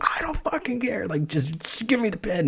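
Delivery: mock exasperated, high, frantic freaking-out outburst. Retelling how she, in pain at the hospital, demanded the pen, imitating someone freaking out. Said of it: "so she's freaking out".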